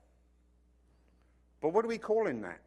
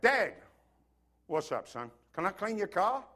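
wheedling son; 3 semitones higher than usual. Retold or imitated. Son sweet-talking dad for car.

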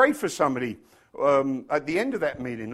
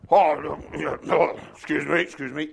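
mock British politeness; 2 semitones lower than usual. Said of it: "it was all that".

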